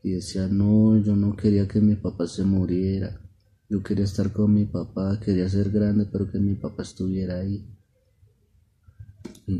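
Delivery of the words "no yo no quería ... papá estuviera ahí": loud opening no, then easing; mildly acted crying, no real tears; a storyteller's regretful little daughter; tearful lament. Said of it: "ella lloraba y recordaba todo eso".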